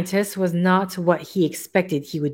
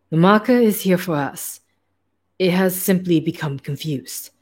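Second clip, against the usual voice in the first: put-on light German accent for the hairless scientist; a hint of a German scientist's accent; German accent, lightly worn. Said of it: "I don't know why this accent".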